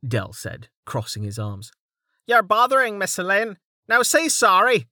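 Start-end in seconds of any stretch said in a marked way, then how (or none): 2.3-4.9 Dell's voice. Acted. Dell mock scolding.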